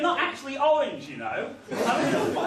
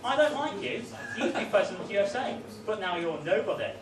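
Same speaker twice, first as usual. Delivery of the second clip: mock earnest poem. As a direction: recite it like a solemn schoolkid poem. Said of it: "It goes".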